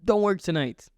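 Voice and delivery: high, loud little devil on the shoulder; tempting inner voice. Retold or imitated. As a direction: egg yourself on like a bad conscience. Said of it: "a voice in my head telling me to do it".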